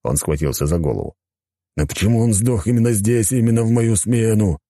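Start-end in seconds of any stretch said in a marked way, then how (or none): 1.8-4.6 higher-pitched, lamenting policeman; despairing inspector. Acted. Inspector facing endless investigation before retirement, despairing lament.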